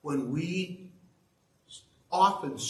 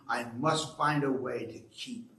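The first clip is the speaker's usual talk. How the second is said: low, hushed Grinch whisper; growled warning; 4 semitones lower, 5 dB quieter than usual. A narrator's reading. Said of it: "he growled with his Grinch fingers".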